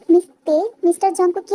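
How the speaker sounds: loud sharp call to get his attention. Acted. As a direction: call "Mister" across the room. Doctor calls out to gangster.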